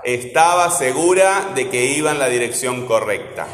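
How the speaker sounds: teacher marking the stresses in "Estaba segura de que iba"; stressed syllables picked out in "esTAba seGUra"; marked stressed syllables. Shown as a demonstration. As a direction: lean on esTAba, seGUra, Iba, direcCIÓN, coRRECta. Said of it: "¿Cuáles son las tónicas?".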